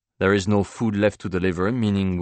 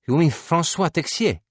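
astonished question; 10 semitones higher, 5 dB louder than usual. Acted. Painter startled to hear hero named.

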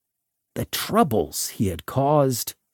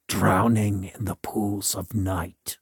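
hollow voice; 4 semitones lower, 4 dB quieter than usual. Retold or imitated. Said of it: "in a hollow voice".

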